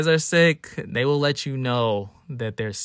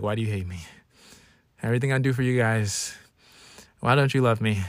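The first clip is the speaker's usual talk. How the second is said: mock drama queen; 3 semitones lower, faster than usual. Imitating mom guilt-tripping her kids when sick, mock wounded. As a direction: imitate a hurt, self-pitying mother. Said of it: "just drama queen".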